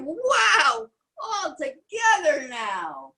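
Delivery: high happy shout; rally everyone to dance; excited frog call. A narrator's reading. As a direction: frog calling the animals together. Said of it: "frog cried".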